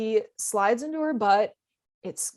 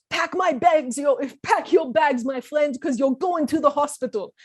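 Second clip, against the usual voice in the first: wrestler threat; 3 semitones higher than usual. Retold or imitated. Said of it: "eighties pro wrestler kind of threat".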